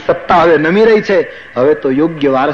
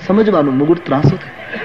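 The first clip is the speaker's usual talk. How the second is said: સમજવાનું said through a light chuckle; laughing repeat. Shown as a demonstration. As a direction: repeat the point with an amused laugh. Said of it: "repeated with a laugh". (હસતાં હસતાં)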